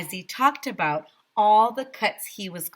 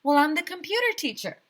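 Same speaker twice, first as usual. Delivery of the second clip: timid answer; 10 semitones higher, faster than usual. A narrator's reading. Teacher answers nervously.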